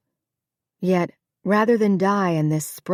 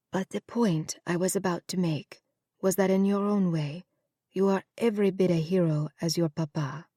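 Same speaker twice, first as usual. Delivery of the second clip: soft, lightly voiced elderly mother; a hint of a proud dying mother, quiet; frail mother; 5 dB quieter than usual. To her son at her deathbed, softly.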